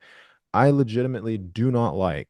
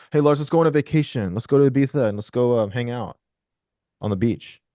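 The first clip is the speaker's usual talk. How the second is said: loud, higher eager invitation; excited friend; 4 semitones higher, 6 dB louder than usual. Retold or imitated. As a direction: pitch the holiday loudly and eagerly. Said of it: "People would say".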